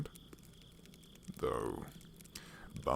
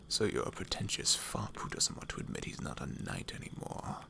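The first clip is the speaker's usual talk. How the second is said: mocking whisper. Rogue mocks the knight.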